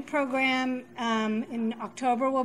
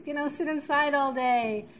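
put-on whiny kid voice; 5 semitones higher, 5 dB louder than usual. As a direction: whine it like a sulky kid. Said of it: "there's that whiny voice".

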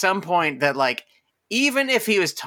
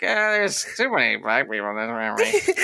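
mock racist grumble; 4 semitones lower than usual. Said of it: "the generic racist feeling".

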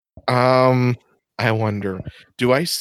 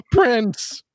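surprised; 11 semitones higher than usual. Real, not acted. Player gasps at the name.

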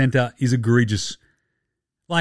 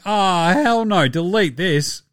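higher, slow, drawn-out objection; mock appalled; 3 semitones higher, slower than usual. Player reacting to his team's sponsor, mock appalled. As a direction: stretch it out in mock dismay.

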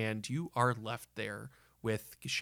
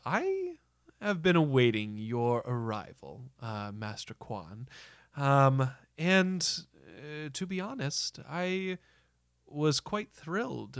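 lightly voiced theater director. Director welcomes the awaited Master Quan, lightly voiced and measured.

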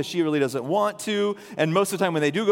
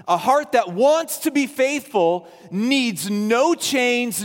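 preaching; 2 semitones higher, slower than usual. Acted. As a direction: drive the truth home from the pulpit. Preaching the key point.

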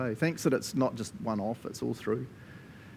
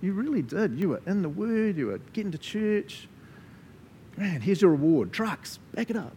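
proud Jesus; 3 semitones higher than usual. Pretend. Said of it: "hear him go".

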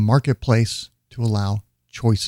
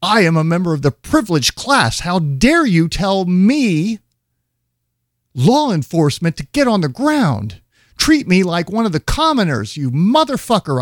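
mock entitled agent; 6 semitones higher than usual. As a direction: play the outraged privileged agent. Mocks agent's entitled outrage.

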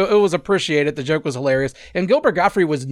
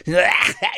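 imitated goofy comedian's laugh; half-managed impression of a goofy laugh; 2 semitones higher than usual. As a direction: mimic a silly, goofy cackle. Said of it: "his fucking goofy ass laugh".

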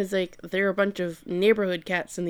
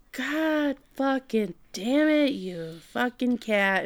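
slow, drawn-out exasperated cursing; mock exasperated curse; 4 semitones higher, 3 dB quieter, slower than usual. Subaru to cat after altar falls, slow exasperated mock curse. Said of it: "Subaru's like".

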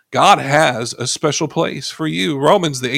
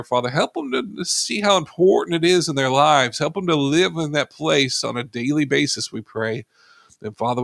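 earnest prayer, lightly lifted from the sermon voice; pastor's prayer. Acted. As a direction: pray it over the congregation. Leads closing prayer.

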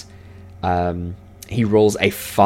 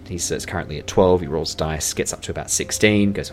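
ordinary talk, nothing marked

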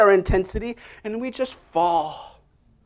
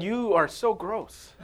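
laughing disgust; 6 dB quieter, slower than usual. Retold or imitated. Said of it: "And my wife said".

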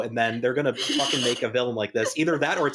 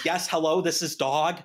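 Doge; 3 semitones higher than usual. Acted. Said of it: "he, like, inserts Doge into".

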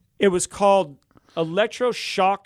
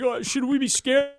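imitating worried wife; 9 semitones higher than usual. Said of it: "she's like".

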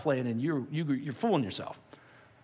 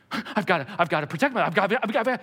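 louder, stammering panic; a touch of loud frantic stammer; mock frantic; 4 semitones higher, 4 dB louder, faster than usual. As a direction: sputter like someone clutching control. Voicing frantic self-preservation.

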